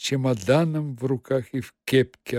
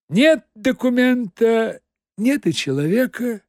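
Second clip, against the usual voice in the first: satisfied; 8 semitones higher, 3 dB louder than usual. Acted. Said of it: "удовлетворённо говорил Коровьев".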